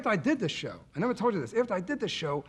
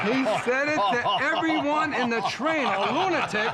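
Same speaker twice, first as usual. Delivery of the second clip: laughing through the words, higher; cracking up while telling it; 8 semitones higher, 5 dB louder, slower than usual. Real, not acted. Storyteller cracking up at the subway lunatic.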